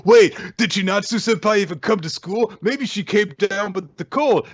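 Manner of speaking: put-on high worried girl voice. Retelling the anime, a high-pitched fretful schoolgirl voice. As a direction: play a fretting kouhai in a high voice. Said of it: "she also thinks, like".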